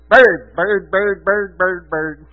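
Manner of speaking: rapid repeated dog thoughts, lightly voiced; excited dog. Preacher voicing the dog looking for birds, excitedly fixated. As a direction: chant it like a fixated bird dog. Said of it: "He just wants that bird".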